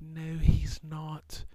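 slow, high whispered no; whispered voice of God. Retold or imitated. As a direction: lean in and whisper it slowly from above. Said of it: "the Lord's just like".

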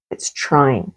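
hushed, tender whisper. Real, not acted. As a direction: breathe it out gently, almost to herself. Tender aside about the brain.

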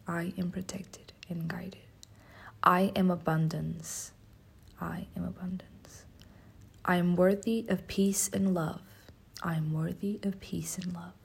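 hushed, slow affirmation recital; slow whispered affirmations. Acted.

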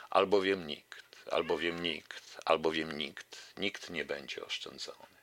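measured, solemn verse reading; poetry recitation. Acted. Radio host ending a poem for listeners, solemn recitation. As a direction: recite the verse, letting the repeated phrase fade.

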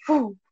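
whooshing mouth-made boom; imitated explosion. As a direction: mimic a blast inside a box. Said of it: "se vio como una explosión".

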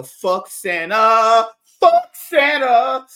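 loud comic cursing at Santa; mock outraged yell. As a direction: holler it slowly, building in pitch. Mock rant against Santa.

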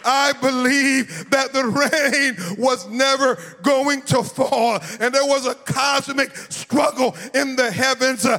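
rising, sung preacher cadence; full-force preaching. Acted. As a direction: preach it, let the words ring out. Preacher builds to climax.

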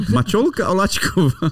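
giggling through the name; laughing while saying it. Real, not acted. Joking about a silly name. (ze śmiechem)

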